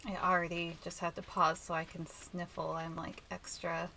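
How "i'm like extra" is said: blocked nose, congested voice; stuffy nose. Real, not acted. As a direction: talk through a stuffy nose. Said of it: "extra stuffy today".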